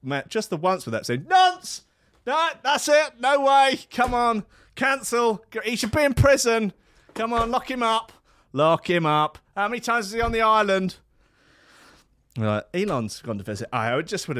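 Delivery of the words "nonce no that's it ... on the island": very high, loud hysterical yell; hammed-up fury, yell it; mock outrage shout. Condemning a disliked pundit, very high and loud mock fury.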